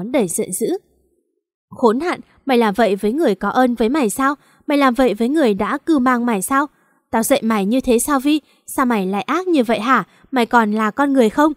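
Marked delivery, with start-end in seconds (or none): 1.7-11.5 fast, rising outraged rebuke; slapped-in-anger mother shaming her child; furious scolding. Acted. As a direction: tear into her daughter. Mother scolds daughter after slap.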